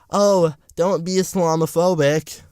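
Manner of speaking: mocking quote. Mocking Western countries' saying.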